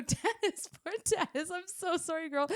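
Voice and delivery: high-pitched, giggly apology; laughing, high-voiced retold sympathy; mock apologetic squeal. Retold apology to coworker while laughing.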